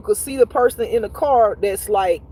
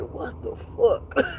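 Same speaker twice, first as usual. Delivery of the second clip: whispered disbelief; 6 dB quieter, slower than usual. Retold or imitated. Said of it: "And I was like".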